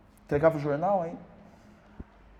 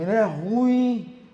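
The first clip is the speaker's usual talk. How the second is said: slow, loud and higher "Ele é ruim"; inner critic voice; 10 semitones higher, 11 dB louder, much slower than usual. Retold or imitated. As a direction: drag it out like a haunting taunt. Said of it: "negócio ficava dentro de mim". (a voz interior acusadora, lenta e alta)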